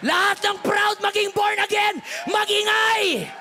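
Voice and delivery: high, loud, climactic sermon shouting; full-force preaching. Acted. Pastor rousing the congregation toward forgiveness, shouting. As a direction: preach it to the rafters.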